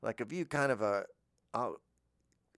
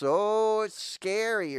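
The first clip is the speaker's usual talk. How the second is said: high, louder little yelp of fright; mock scared animal; 10 semitones higher, 6 dB louder, much slower than usual. Animal spooked by a scary head, mock fright. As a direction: play a startled animal, hammed up. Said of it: "or it's".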